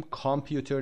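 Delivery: کامپیوتر with a full open "kam" first syllable; no schwa in کامپیوتر, full "kam-pyuter"; wrong full-vowel pronunciation. Shown as a demonstration. Teacher showing what not to say, wrong full vowel.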